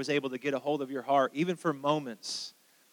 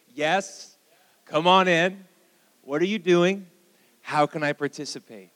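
loud, raised voice for all to join; leading a call-out; 2 semitones higher, 8 dB louder than usual. Shown as a demonstration. Pastor getting the church to say it with him, loud call-out. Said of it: "Say that with me".

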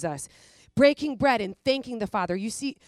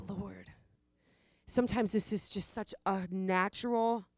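a breathless whisper to the Lord; whispered prayer; 6 dB quieter than usual. Real, not acted. Preacher turns from the congregation to whisper a prayer. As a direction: hush and speak it only to God. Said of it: "whispered aside to the Lord".

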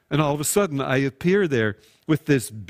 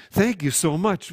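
eager, higher thanks; gushing thank you; 3 semitones higher than usual. Acted. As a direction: thank him like you mean it. Gushing thanks when gift offered.

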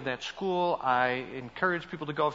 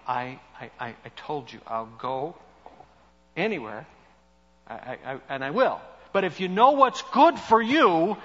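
mock warning to God. Retold prayer to God, pleading.

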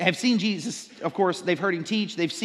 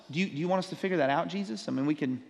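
sarcastic; faster than usual. Retold or imitated. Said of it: "they're being sarcastic".

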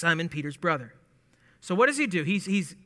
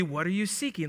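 intellectual; 5 dB quieter than usual. Shown as a demonstration. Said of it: "very, you know, intellectual".

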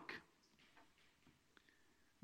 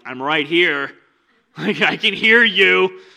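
dry Jesus retort; 5 semitones higher, 11 dB louder, slower than usual. Pretend. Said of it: "Jesus is like".

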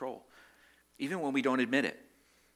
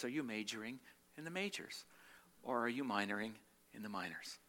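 calm gentle rebuke; 6 dB quieter than usual. Retold or imitated. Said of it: "looks at me very calmly and says".

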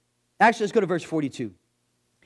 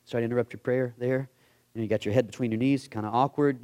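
timid servant; 6 semitones lower than usual. Retold or imitated. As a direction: tiptoe around the boss, awkward and sheepish. Servant timidly interrupts praying prophet.

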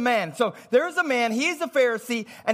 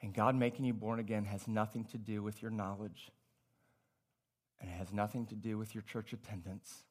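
hushed sermon voice; 16 dB quieter than usual. Acted. Preacher to congregation, hushed and intimate. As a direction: drop to a low, soft murmur.

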